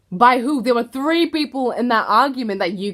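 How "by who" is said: louder by who. Real, not acted. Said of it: "rhetorical question repeated".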